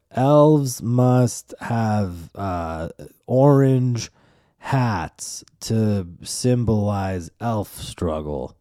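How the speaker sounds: very slow, drawn-out reading of a silly rule; mock solemn reading. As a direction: spell out each ridiculous word slowly. Reading the absurd tweet aloud.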